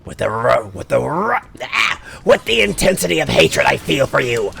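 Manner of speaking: grind out hatred through a sore throat; raspy villain voice. Acted. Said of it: "My throat's already burning".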